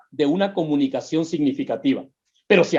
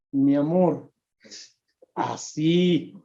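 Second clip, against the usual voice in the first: soft slow demo; 4 semitones lower, 5 dB quieter, much slower than usual. Shown as a demonstration. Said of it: "así, despacito".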